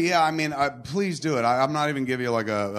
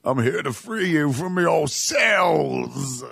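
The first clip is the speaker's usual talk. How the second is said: mock hero; much slower than usual. Playing the superhero.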